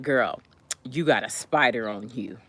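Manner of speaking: low, understated heads-up; calm. Retold or imitated. Classmate telling her about the spider, calm. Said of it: "she's all calm, right?".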